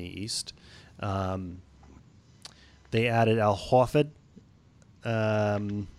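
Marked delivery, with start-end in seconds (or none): 3.4-4.1 Boston accent with dropped R's. Shown as a demonstration. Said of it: "that was my good Boston accent".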